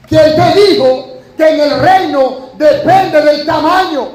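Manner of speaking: slow, forceful preacher's challenge; slow, forceful rhetorical challenge from the pulpit. Real, not acted. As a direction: hammer the question home to the church. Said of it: "Tengo que decirlo con fuerza".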